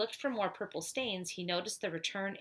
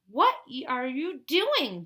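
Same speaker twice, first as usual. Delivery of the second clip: loud, high, slowed alarmed yell; 5 semitones higher, 7 dB louder, slower than usual. Acted. Dink to Josh spilling milk, loud alarmed yell. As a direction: shout at him to stop. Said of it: "Dink yelled".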